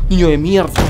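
real startled outburst; startled curse. Real, not acted. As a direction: curse at what just scared you. Cursing after a jump scare.

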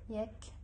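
يكتب broken into "yek, tu, bu" with long gaps; long pauses between the syllables of يكتب. Shown as a demonstration. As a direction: sound out يكتب in separate syllables. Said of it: "أو كلمة يكتب".

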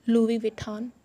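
Louis Vuitton as lwee vwee-ton; correct pronunciation. Shown as a demonstration. Teacher modelling lwee vwee-ton. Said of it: "Not Louis Vuitton".

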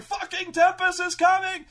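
high, loud panicked warning; panicked yell. Acted. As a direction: yell in panic while fleeing. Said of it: "They're like".

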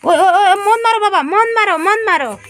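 high-pitched, repeated plea to stop, easing at the end; urgent protest. Real, not acted. Parent stopping child from hitting a creature, urgent protest.

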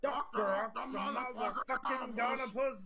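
slow drawn-out name. Acted. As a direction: stretch every syllable slowly. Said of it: "not two hundred O's worth".

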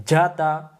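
যাতা with a hard mid-tongue j; firm articulation. Shown as a demonstration. Teacher drills the syllables, যাতা said firmly. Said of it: "শক্ত করে".

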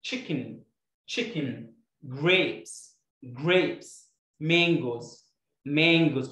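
each word said twice, clear and spaced; repeat-after-me drill. Shown as a demonstration. Teacher drilling vocabulary for pupils to repeat aloud. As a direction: model each word for the class to echo. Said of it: "repeat after me".

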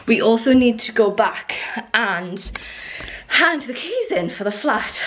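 breathless, puffing between words; short of breath after the stairs. Real, not acted. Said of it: "I don't know why I'm so out of breath".

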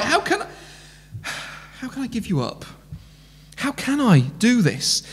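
soft, broken-hearted plea; almost hushed, God grieving; tender lament. Pretend. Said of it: "he's like".

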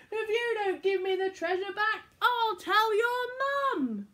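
put-on high, loud, slowing childish threat; hammed-up furious threat; shouted curse. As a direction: shout it like a sulky pirate. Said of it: "shouted his worst pirate curse".

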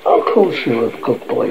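low-pitched, soothing mother; gentle reassurance. Acted. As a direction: reassure a child tenderly. Mother reassures her child.

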